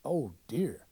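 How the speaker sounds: breathy whispered comment; whispered aside. Real, not acted. Narrator reacting to the mishap, whispered. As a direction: mutter it under your breath.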